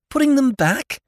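very high disbelieving question; lordship's squeaky disbelief; incredulous echo. A narrator's reading. Lordship echoes Jimmy in disbelief.

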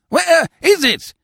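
high, loud, slow outburst; each word wrung out in outrage; indignant demand. Acted. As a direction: demand an answer, exasperated. Pink youth demands his umbrella.

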